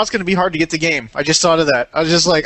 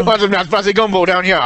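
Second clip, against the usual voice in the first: put-on Cajun accent. Cajun greeting Darth Vader, jokey Cajun accent. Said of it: "Sounds like you're Cajun".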